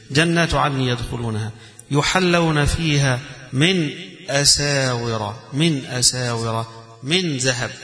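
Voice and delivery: slow melodic recitation of the verse, drawing out the words; Quran recitation. Acted. Teacher recites the verse to his students, slow and melodic. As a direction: chant the verse in tajweed style, stretching أساور.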